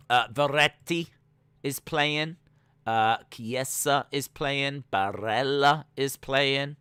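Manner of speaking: put-on names read slow in an Italian accent. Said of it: "doing it in, like, an Italian accent".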